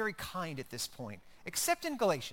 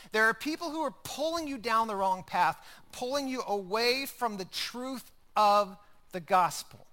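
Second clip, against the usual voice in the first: a touch of an urgent, louder apostle; intense Paul; 4 semitones higher, 5 dB louder than usual. Retold or imitated. Paul warning the Galatians: intense, urgent plea. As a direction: press the warning home. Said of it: "Paul is very focused, he's very intense".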